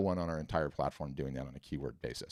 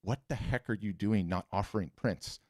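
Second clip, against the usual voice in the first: mock exasperated rant, building higher and louder; half-shouted retold tirade at a friend; retold exasperated scream; 5 semitones higher, 4 dB louder than usual. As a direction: plead and scold in a hammed-up complaint. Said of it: "And I scream at her".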